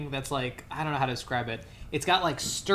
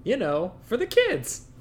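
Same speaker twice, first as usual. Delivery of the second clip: sarcastic; 8 semitones higher, slower than usual. Real, not acted. Sarcastic kids movie remark.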